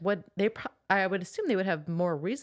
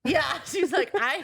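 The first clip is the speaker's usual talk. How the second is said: higher, louder laugh-shout; 8 semitones higher, 4 dB louder than usual. Real, not acted. Friend laughing at Feyre's line, loud laughing shout. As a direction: burst out laughing mid-line.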